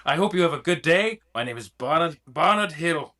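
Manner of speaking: proper, polite British gentleman; British accent. Acted. Man introducing himself to his hosts, proper British accent. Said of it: "he got British".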